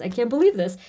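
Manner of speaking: disbelief said out to the viewers; exclaimed disbelief at the reading. Real, not acted. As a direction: let the amazement come out. Overwhelmed by card message.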